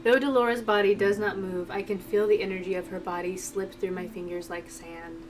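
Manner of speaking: soft, measured narrator reading; story narration. A narrator's reading. Reading a tense game scene aloud, story narration. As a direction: read the scene quietly and evenly.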